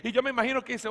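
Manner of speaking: usual speaking voice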